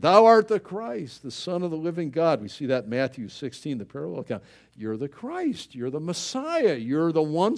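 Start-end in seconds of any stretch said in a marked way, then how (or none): 0.0-2.4 King James recital. Retold or imitated. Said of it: "King Jim is how I learned".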